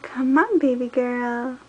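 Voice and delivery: high coaxing sing-song; reading to a toddler. Acted. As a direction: coax baby girl forward. Coaxing baby to crawl.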